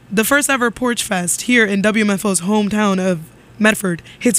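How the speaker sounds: radio announcement voice; announcer read. Acted. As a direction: read it like a community radio notice. Reads a PSA announcement.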